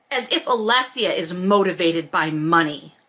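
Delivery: ordinary delivery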